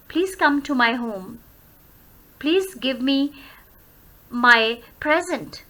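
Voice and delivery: slow, "home" and "present" settling downward; falling invitation. Shown as a demonstration. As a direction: invite slowly, dropping on the last word "present". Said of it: "ये falling invitation है". ("present" पर गिरता लहजा, धीमे)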